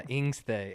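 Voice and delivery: "Ingstay" starting on the vowel, no H; first sound moved. Shown as a demonstration. Correcting the cohost's Pig Latin, "Ingstay" starting on the vowel. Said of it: "heard it both ways".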